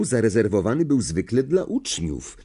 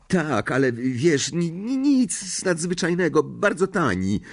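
sheepish; 8 semitones higher than usual. A narrator's reading. Ron stammers, embarrassed.

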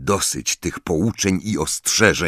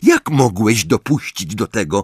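higher-pitched indignant demand; angry scolding; 6 semitones higher than usual. A narrator's reading. Angelina berating Harry over his detention, angry. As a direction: tear into him for it.

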